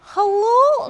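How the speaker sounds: put-on botched Scottish accent. Mimicking the Scottish date answering the phone, in a botched Scottish accent. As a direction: try a Scottish "Hello?" and fail. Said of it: "but I can't do the accent".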